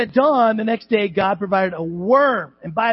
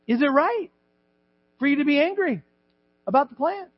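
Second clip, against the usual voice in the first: gentle God; 5 semitones higher than usual. Acted. God's voice in reading.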